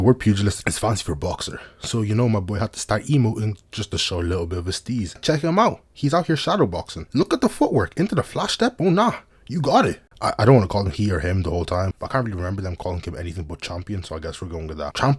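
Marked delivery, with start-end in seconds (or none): 5.2-10.0 hyped commentary. Real, not acted. Hyping the shadow boxing.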